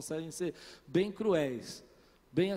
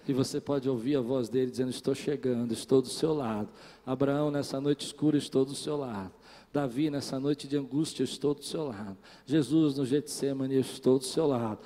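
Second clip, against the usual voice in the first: lower, growing louder line by line; intimate then rising preaching; 6 semitones lower, 6 dB louder than usual. Acted. Pastor voicing God's promise to his listeners, lower and building.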